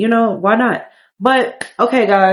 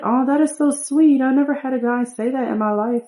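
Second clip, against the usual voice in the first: higher, lightly voiced flattered woman; a hint of a giddy girl hearing a compliment; flattered Sim girl; 5 semitones higher than usual. Voicing the woman Sim answering his compliment, higher and flattered.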